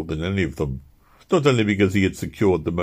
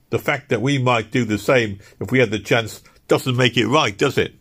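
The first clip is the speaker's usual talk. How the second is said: higher, louder indignant workman; Harlow's voice; 7 semitones higher, 5 dB louder than usual. Acted. Harlow chiming in about Crass, raised and indignant. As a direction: press the point about fairness.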